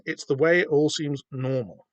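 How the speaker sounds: normal leaned on, slow and falling; emphasis on normal. Acted. Reading a comic caption aloud, stress on normal. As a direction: stretch out the word normal and let it drop. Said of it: "Emphasis on normal there".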